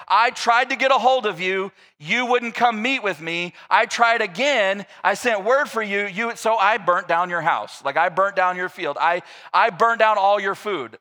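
hammed-up petulant excuse; mock whiny excuse. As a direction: plead your innocence like a sulky kid. Absalom paraphrased as petulant excuse.

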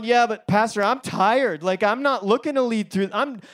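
tired congregant. Retold or imitated. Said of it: "some of you are sitting here going".

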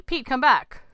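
high, loud urgent call; shouting. A narrator's reading. Woman calling her husband back from the sea, shouting. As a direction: shout for someone far away. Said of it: "Claire shouted into the sea".

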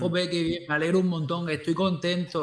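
bright, cheering praise for a small win; gushing teacher praise; enthusiastic praise. Retold or imitated. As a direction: cheer the kid on like he just nailed it.

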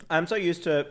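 talking while crunching; crunching chips. Real, not acted. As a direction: mouth full of food. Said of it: "can you hear me crunching?".

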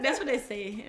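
"say" bent toward "see", laughing; mimicked island pronunciation. Teasing a friend's island accent, "say" as "see". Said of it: "not say".

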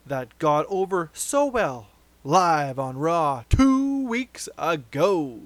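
emphatic podcast news-reading voice. Acted. Host reads the next wrestling rumour, announcer style.

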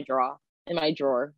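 "drawer" clipped to one syllable, like "draw"; own drawer pronunciation. Retold or imitated. Retelling being teased at work, one-syllable drawer. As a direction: say "drawer" as a single short syllable. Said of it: "everyone makes fun of me".

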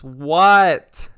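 loud, yowled reply; cat voice. Retold or imitated. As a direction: answer like a yowling cat. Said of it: "And then she responds".

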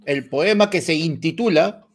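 slow, formal reciting voice; grand poetry declamation. Acted. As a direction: announce the poem like a school recital. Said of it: "Voy a declamar".

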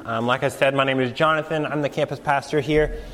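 stuffed-up nasal voice from a cold. Real, not acted. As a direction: talk through a blocked nose. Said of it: "nasal voice tonight".

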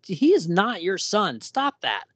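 playful exasperated rebuke; indignant objection. Retold or imitated. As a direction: scold him in disbelief. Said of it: "And I'm like".

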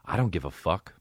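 low, lazy entitled voice; deep put-on voice of a self-absorbed traveler; mock entitled passenger. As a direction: sneer it like a selfish passenger who doesn't care. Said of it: "imagine being that fucking egocentric that you're like".

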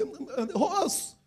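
mock stern father's hushing grunt; father silencing a crying son, mock stern; scolding father. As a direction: growl at the crying boy like a stern dad. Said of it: "Your father said".

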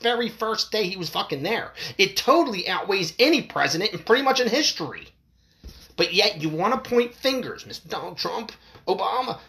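upset ranting. Real, not acted. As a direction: keep railing angrily at the viewers. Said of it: "I'm getting a little upset about this".

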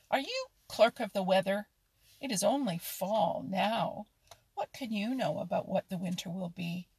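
loud, scoffing questions; loud teasing. Acted. Otter taunts the muskrat about the winter, loudly. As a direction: jeer at him to show he knows nothing.

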